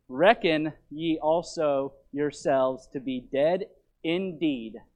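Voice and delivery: deliberate, weighted verse reading; scripture reading. Acted. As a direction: read each clause out firmly. Reads scripture aloud to congregation.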